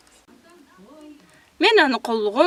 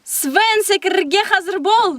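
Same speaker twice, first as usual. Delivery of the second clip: shouted call; 5 semitones higher than usual. Acted. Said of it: "сразу крик".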